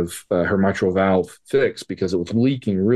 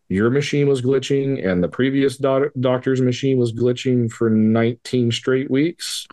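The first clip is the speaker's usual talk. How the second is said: incredulous retort; 4 semitones higher than usual. Retold or imitated. Father to the doctor mocking the glitch excuse, incredulous and higher. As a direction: throw his excuse back at him, incredulous.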